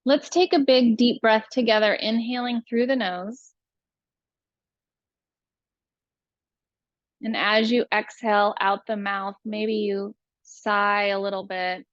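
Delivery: calm, unhurried breathing guide; spacious meditation delivery, phrase by phrase; guided meditation. Real, not acted.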